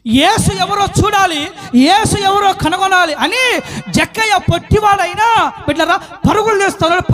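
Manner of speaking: animated, driving sermon storytelling; impassioned preaching. Acted. Preacher telling of Zacchaeus running to see Jesus, impassioned.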